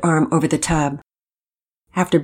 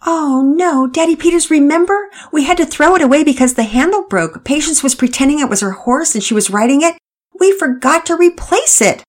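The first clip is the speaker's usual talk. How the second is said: lively higher mother explaining; mother reminding father, brisk and raised; mother character voice; 10 semitones higher, 4 dB louder than usual. A narrator's reading. Mother explaining the broken plunger to father, higher lively voice.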